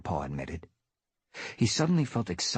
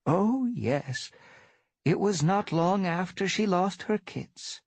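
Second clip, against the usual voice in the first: earnest; 12 semitones higher than usual. Acted. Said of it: "Dappletail mewed earnestly".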